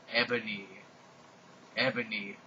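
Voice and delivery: a hint of an evil villain; low, menacing name call; evil raspy voice. A narrator's reading. Voldemort calling out to Ebony, lightly evil. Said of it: "said evilly in his raspy voice".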